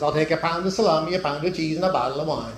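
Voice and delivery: lightly put-on Italian accent; joke-teller's mild mock Italian accent. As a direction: attempt your best Italian accent to pass as Italian. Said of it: "whipped up the best Italian accent".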